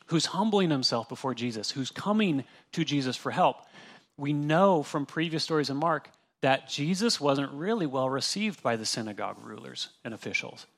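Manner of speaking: ordinary talk, nothing marked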